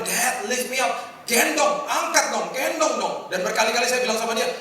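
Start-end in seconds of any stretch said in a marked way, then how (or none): 0.0-3.2 lightly voiced small child pleading to be picked up; a hint of a whiny little kid; child begging. Little son tugging at dad's trousers, lightly mimicked whine.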